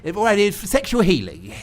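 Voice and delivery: comic imitation of a TV host; Bruce Forsyth. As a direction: put on a doddering showman's patter. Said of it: "it's not very sexy voices".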